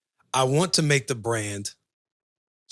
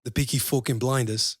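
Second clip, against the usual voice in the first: put-on Peaky Blinders accent; 4 dB quieter than usual. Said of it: "could you do the accent".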